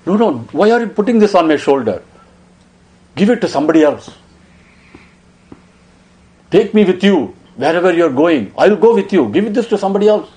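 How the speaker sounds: put-on a young boy begging his elder not to crown him; pleading through tears. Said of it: "He was crying non-stop".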